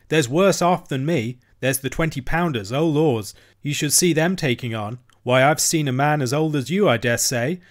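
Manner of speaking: a lightly voiced cabin boy, eager to show off; boasting cabin boy.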